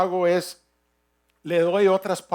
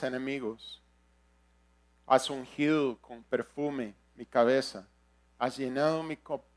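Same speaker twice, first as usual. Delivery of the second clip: scripture reading; 4 semitones lower than usual. Acted. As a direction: read the psalm aloud, reverently paced with pauses. Reads the psalm aloud.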